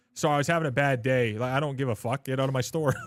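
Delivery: loud rude shopkeeper shouting back; mock angry clerk. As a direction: play the fed-up clerk yelling. Acted store clerk snapping at customer.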